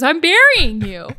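slow, loud and deliberate, voice put on; loud slow mock-calm voice; deadpan movie quote. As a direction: announce it flatly and slowly like a man doing a chore. Other guy's reply in movie scene.

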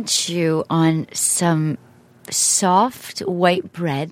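slow ASMR voice. Acted. ASMR-style guided chewing setup.

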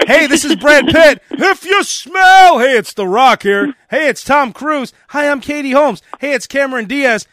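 canned star radio drops, one after another; mock celebrity station greetings; celebrity intros. Stars introduce themselves on air, mock canned delivery. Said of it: "It's like this".

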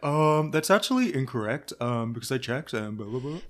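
dull droning mope; boring Eeyore voice. Retold or imitated. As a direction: drone it out like Eeyore. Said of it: "mundane Eeyore Gina Keo voice".

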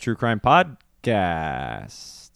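hushed, slow whisper. Acted. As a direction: whisper the title. Whispered show title.

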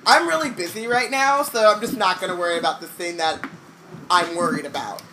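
sarcastic brush-off; mock breezy self-talk. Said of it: "you don't say".

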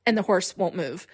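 ordinary delivery

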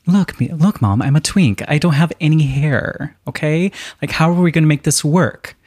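lightly played young man fretting to his mother; lightly voiced Jacob. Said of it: "So Jacob points out to his mom".

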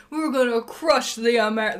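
mock English accent, hyping up the team. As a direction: put on a boastful English accent. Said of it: "English accent".

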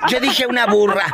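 laughing through the words. Real, not acted. Host correcting her joke, laughing. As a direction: crack up while saying it.

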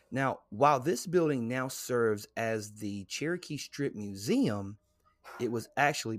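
slow, deliberate guide narration; read-aloud narration. Real, not acted. Host introducing a haunted museum, read-aloud narration. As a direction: read the entry out with weighted key words.

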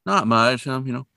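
lightly voiced mom smoothing things over; downplaying mother. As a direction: play it down casually, a hint of evasion.

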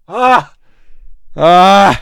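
high, loud fake wail; mock wail. Mock breakdown over leaving gym.

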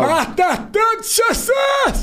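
mock preacher shout. Mock pious exclamation.

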